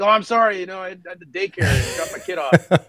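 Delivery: high, laughing mock apology; mock excuse. Late Marine excusing himself to his squad, laughing and high. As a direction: play the late guy's sheepish excuse, laughing. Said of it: "it's like".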